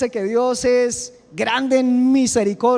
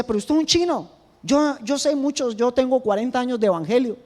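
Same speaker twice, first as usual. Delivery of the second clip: higher, clipped scolding voice; curt, harsh tone; 4 semitones higher than usual. Retold or imitated. Pastor imitating a proud church member who spoke to him harshly. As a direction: mimic a know-it-all brushing you off. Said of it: "siempre me hablaba a mí golpeado".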